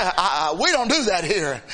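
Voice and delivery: lightly voiced scolding deacon; stern deacon. Deacon stopping the woman praising, stiff and low. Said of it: "the deacon stopped her".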